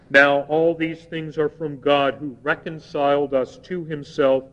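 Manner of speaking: measured, solemn Bible reading; scripture reading. Acted. Reads Corinthians scripture aloud.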